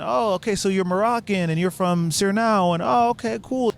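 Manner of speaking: high, interested reactions; retold eager small talk. Chatting with the Dutch pair, retold eager interest.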